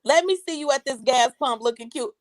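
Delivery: loud, high hype-up cheering; hype man. Pretend. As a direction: cheer her on at full volume. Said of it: "I am the world's greatest hype man".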